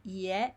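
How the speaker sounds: ie with both vowels sounded; correct vowel pair. Shown as a demonstration. Teacher corrects learners' vowels, clear pronunciation demo. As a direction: say ie as i gliding into e. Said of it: "it's not E".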